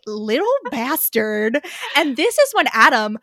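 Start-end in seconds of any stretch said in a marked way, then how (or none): 0.1-1.6 slow, drawn-out playful accusation; teasing mock accusation. Real, not acted. Host teasing Adam over his scheme, mock accusing. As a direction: stretch it out, amused at the schemer.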